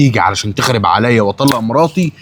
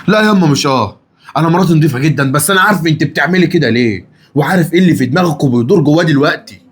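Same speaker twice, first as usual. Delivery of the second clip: raised, higher voice, pushing back hard; heated protest; 6 semitones higher than usual. Acted. Son defending his wife to his mother, heated and raised. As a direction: defend her with rising heat.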